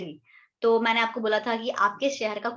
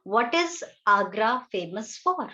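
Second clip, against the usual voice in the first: slow model question; much slower than usual. Shown as a demonstration. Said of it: "अब अगर मुझे बोलना है".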